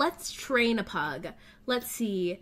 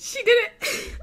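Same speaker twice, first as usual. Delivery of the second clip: higher, louder squeal of delight; thrilled cheer; 11 semitones higher, 5 dB louder than usual. Real, not acted. Owner cheering her pug's win, thrilled. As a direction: burst out with joy at the pug's success. Pug finishes obstacle course.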